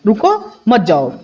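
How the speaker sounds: slow, रुको set apart from a falling मत जाओ; pause after रुको. Shown as a demonstration. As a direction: break after रुको, keep मत जाओ together. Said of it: "किसी को रोका जा रहा है".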